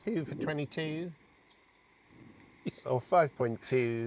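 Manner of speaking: a hint of an old cricket commentator; Richie Benaud impression. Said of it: "That sounded more like Doc Cotton".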